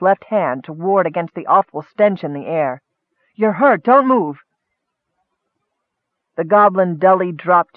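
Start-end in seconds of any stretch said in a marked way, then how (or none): 3.4-4.4 higher, alarmed elf; pressing, concerned order; urgent warning. A narrator's reading. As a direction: warn a hurt friend to stay put. Elf urgently warns wounded goblin.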